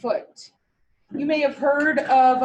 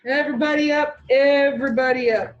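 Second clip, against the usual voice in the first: raised teacher's call to the class; 4 dB louder than usual. Real, not acted. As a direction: call the whole room to order. Teacher calling the class to stand.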